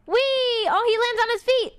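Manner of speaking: high, delighted cry of surprise; excited squeal. Real, not acted. Thrilled at the little gnome landing safely, high delighted squeal. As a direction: squeal with joy as he lands.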